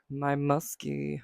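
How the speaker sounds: hoarse sick voice; rough husky voice from a cold. Real, not acted. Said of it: "my husky voice".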